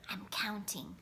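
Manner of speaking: breathy unvoiced whisper; mouthed whisper. A narrator's reading. Junior keeps the counting secret, whispering. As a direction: whisper so nobody hears. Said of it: "Junior mouthed".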